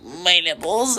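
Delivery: high drawn-out squeal; mock girl squeak. Quoting the video girl to a friend, high squeal. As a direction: imitate the girl's squeal again. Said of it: "the girl just being like".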